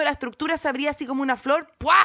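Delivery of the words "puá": sudden sharp "puá" sound effect; imitated burst noise. Actor describing a cart stage opening like a flower, imitated burst noise. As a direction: make the noise of something bursting open.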